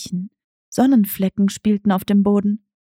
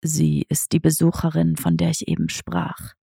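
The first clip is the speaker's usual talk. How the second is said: understated lower cat voice; tomcat Diego asking; 5 semitones lower than usual. Acted. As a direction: ask like a sly old tomcat.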